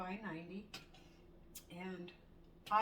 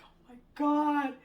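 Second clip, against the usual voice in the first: stunned; 6 semitones higher, 13 dB louder, slower than usual. Retold or imitated. Seeing car in treetop.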